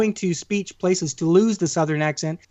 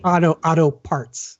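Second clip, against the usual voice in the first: slow Boston accent on "auto parts"; slower than usual. Shown as a demonstration. Host showing how Boston says it, Boston accent. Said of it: "That's how you say".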